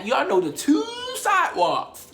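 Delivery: slow, stretched Baltimore accent on two sidewalks. Real, not acted. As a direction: lean into the Baltimore accent, drawn out. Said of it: "I sounded Baltimore as fuck".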